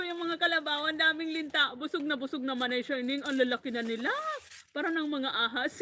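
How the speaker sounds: tearful, pleading complaint; crying retold. To her brother on the phone, tearful retelling. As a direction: cry out the leech story half-laughing. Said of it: "nag-iyak ako".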